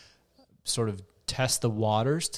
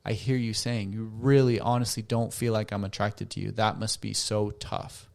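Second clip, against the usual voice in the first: gentle empathy; 3 semitones lower than usual. Shown as a demonstration. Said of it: "they can do it again".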